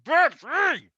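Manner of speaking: shrill, very high frantic screeching creature; struggling creature. Acted. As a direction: squeal like a trapped little beast. Captured creature struggling, screaming.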